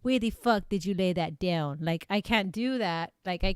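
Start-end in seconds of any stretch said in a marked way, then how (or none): 0.0-1.8 mock male Russian accent; Russian-accented movie line; John Malkovich Russian. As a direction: put on a Russian accent, movie-villain quote. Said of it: "I think of John Malkovich".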